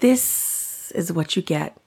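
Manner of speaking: slow down, breathe and enunciate; crisp projected speech demo. Shown as a demonstration. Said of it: "what my voice sounds like when it's deeper, when I over enunciate, when I slow down and breathe".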